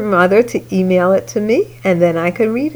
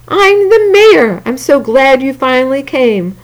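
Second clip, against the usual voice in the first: mayor voice; 5 semitones higher than usual. Acted. Mayor character voiced in story.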